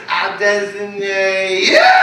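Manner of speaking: slow, drawn-out proclamation shout; mock designation shout. Comic naming a big fan the driver, booming slowly. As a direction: point and decree it like a judge.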